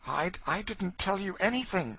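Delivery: flat, stubborn denial; a touch of sullen refusal; dogged sullenness. A narrator's reading. Cassie denies telling Legree anything, doggedly sullen. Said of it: "with dogged sullenness".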